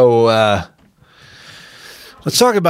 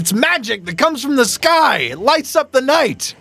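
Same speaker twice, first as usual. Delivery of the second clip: excited; 9 semitones higher than usual. Real, not acted. Defending horses, high pitch.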